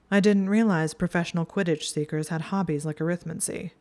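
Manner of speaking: lightly voiced sneer, brushing her friend aside; a touch of scorn, not too much; mild dismissive jab at a rival; snide and dismissive. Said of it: "Draco's tone was snide and dismissive".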